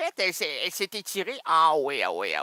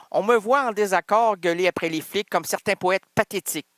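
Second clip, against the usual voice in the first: recited again a bit fuller and more pushed; fuller poem recital; 3 dB louder than usual. Shown as a demonstration. After being teased for stopping, reciting with more push. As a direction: give the verse more drive this time. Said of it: "Pourquoi tu t'arrêtes à pathétique?".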